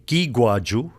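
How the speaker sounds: giguaju said slowly, gi-gwa-ju; Mi'kmaq word. Shown as a demonstration. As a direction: draw out giguaju carefully for the listener. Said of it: "direct borrowing from the Mi'kmaq".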